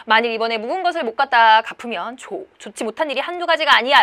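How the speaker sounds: acted warning with a touch of menace; mild threat. Land agent warns tenant over unpaid rent, mildly threatening. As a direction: press the debtor with a lightly threatening warning. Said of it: "라고 하면서 협박도 하네요".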